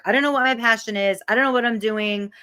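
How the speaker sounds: quick, mildly exasperated retelling; rushing through a client's mild frustration; frustrated client. Retold or imitated. Coach imitating a frustrated client on the phone, lightly exasperated and quick. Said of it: "She was so frustrated".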